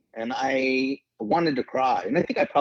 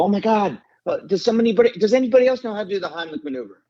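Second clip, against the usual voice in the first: retold panicked scream; 10 semitones higher than usual. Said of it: "I heard them scream that".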